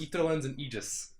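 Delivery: Etherlens and Aegis both starting "EE"; correct long-E pronunciation. Shown as a demonstration. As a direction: say EE-ther-lens and EE-jis. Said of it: "Etherlens is correct".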